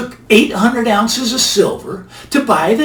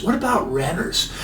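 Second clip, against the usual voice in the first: quiet echo; 7 dB quieter than usual. Shown as a demonstration. Host repeating his own question, softer and quieter. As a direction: drop to a soft, quiet repeat of What about renters. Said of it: "All right, so now what about renters".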